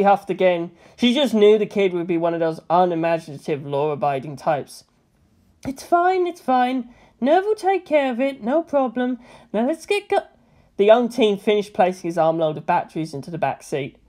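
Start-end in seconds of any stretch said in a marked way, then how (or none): 5.6-10.3 higher, brisk bossy woman; Misato's voice. A narrator's reading. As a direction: play Misato hurrying him along.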